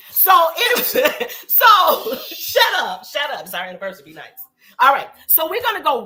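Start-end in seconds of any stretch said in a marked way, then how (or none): 0.1-3.4 laughing, playful shut up; loud laughing tease. Real, not acted. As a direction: giggle through it, teasing. Laughing, telling husband shut up.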